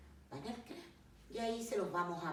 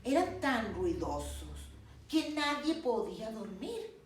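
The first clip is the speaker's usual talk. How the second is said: narración pausada y expresiva de cuento; cuento infantil; 3 semitones higher, slower than usual. Acted. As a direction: cuenta el cuento a los pequeños, animando las frases. (narración de cuento para niños)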